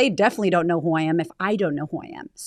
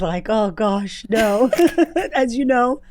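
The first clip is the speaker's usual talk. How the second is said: stifled laugh breaking into a real one; trying not to laugh; 3 semitones higher, 5 dB louder, slower than usual. Real, not acted. Laughing as the host asks about her confidence. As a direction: fight back a laugh, then let it out. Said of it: "I'm trying not to laugh".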